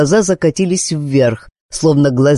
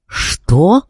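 puzzled; 4 semitones higher than usual. A narrator's reading. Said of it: "недоуменно спросил мужчина".

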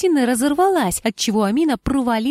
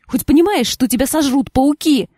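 louder, higher angry retort; 4 semitones higher, 5 dB louder than usual. A narrator's reading. Angry wife scolding her husband, louder angry retort. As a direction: snap at him in anger. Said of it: "Амину охватила злость".

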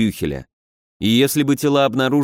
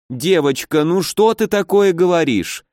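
higher, heartfelt protest; emotional exclamation; 6 semitones higher than usual. Acted. Housekeeper rushes to comfort the girl, emotional exclamation. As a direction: throw up your hands and exclaim. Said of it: "эмоционально ... воскликнула Ирина".

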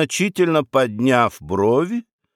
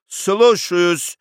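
a higher, snapped yes-sir; barked reply; 5 semitones higher than usual. Acted. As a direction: bark the answer like a soldier. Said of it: "рявкнул тот". (рявкнул по-военному)

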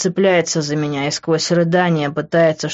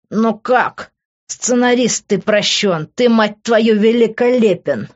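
high, loud, amazed exclamation; raised-voice jubilant relief; elated outburst; 6 semitones higher, 4 dB louder, slower than usual. A narrator's reading. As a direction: exclaim it with overjoyed disbelief. Overjoyed outburst at finding her alive.

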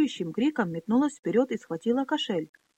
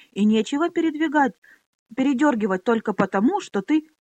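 indignant protest; 5 semitones higher, 6 dB louder than usual. Acted.

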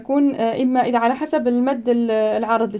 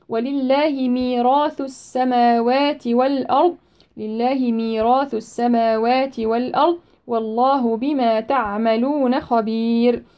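slow measured tajweed recitation; Quran recitation; slower than usual. Shown as a demonstration. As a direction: recite it with tajweed, stretching the vowels.

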